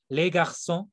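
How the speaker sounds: les garçons in French, the ç sounded as S; cedilla as S. Shown as a demonstration. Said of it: "es como una S simplemente".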